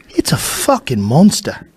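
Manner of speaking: lightly Australian, slow, rising at the end; mock Aussie, tune lifting on monster; a hint of an Australian accent, slowed down; Adam Green impression. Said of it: "worst Adam Green impression".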